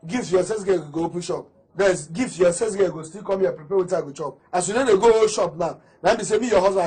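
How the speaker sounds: loud, irritated complaint; annoyed scolding. Acted. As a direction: scold your wife loudly over breakfast. Husband quarrels with wife about food.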